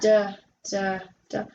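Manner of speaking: "duh" repeated as a phonics sound; letter D sound. Shown as a demonstration. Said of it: "the letter D sounds like".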